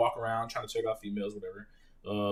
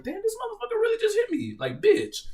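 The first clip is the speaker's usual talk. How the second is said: much higher, incredulous cry; retold outrage, pitched way up; stunned disbelief. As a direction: squeak out the shock of being hit. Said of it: "But I was like".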